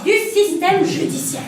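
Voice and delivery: slow seductive reading; sensual voice. Acted. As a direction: read it like a hotline purr. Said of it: "La voix sensuelle?".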